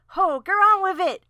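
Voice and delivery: loud, high comic order; impatient shout. Acted. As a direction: holler impatiently in a mock stage voice. Acting out impatient tail-puller.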